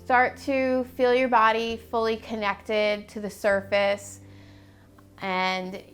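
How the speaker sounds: measured, even-toned body scan guidance with long pauses; guided meditation. Acted. Guide talking clients through a body scan, calm meditation voice. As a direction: lead them calmly and unhurriedly through each step.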